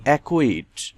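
অ্যাকুইট with a single k sound for CQ; silent C. Shown as a demonstration. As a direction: say অ্যাকুইট, no separate C before the kw. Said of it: "সি এর উচ্চারণ হয়নি". (অ্যাকুইট, সি অনুচ্চারিত)

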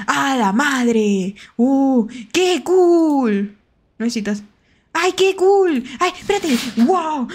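loud, high thrilled exclamations; excited. Real, not acted. Streamer thrilled by the new Outlast flashlight, excited shouts. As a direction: gasp at the cool new gadget. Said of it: "Por eso me emociono".

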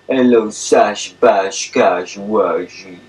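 slow rhyming nicknames for a dog; lazy, affectionate doggy greeting; good-girl pet talk. Shown as a demonstration. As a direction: draw out each pet name. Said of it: "when I feel as if she's a good girl, I say".

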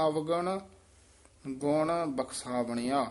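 ਅਵਗੁਣ rising, rest, then ਗੁਣ ਬਖਸ਼ਾਵਣਿਆ; pause after ਅਵਗੁਣ. Shown as a demonstration. Teacher showing the rest after ਅਵਗੁਣ. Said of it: "ਅਵਗੁਣ ਤੇ ਵਿਸਰਾਮ".

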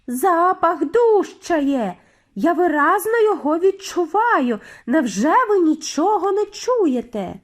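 loud, high, insistent witch voice; high, agitated alarm; urgent shouting. A narrator's reading. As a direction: plead loudly to be believed. Mildred keeps shouting her alarm.

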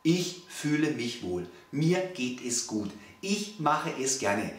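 a calm client saying healthy eating feels good, in a slow, soft voice; calm affirmation. Pretend. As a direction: say it slowly as if you mean it. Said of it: "kommen und sagen".

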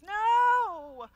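high, loud panicked NO; a loud, high cry of no; inner shout. Retold or imitated. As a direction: blurt the inner refusal. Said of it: "everybody's internal voice at that moment goes".

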